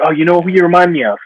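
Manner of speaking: a hint of a chirpy industry type; imitating casting people. Actor mimics casting people comparing him to others, bright mock voice. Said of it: "reminder, uh, you give 'em".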